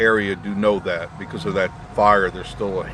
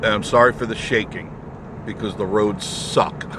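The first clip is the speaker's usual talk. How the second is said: on a bumpy road. Real, not acted. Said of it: "the road is washboard".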